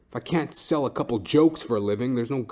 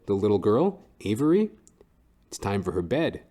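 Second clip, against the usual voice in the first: ordinary talk, nothing marked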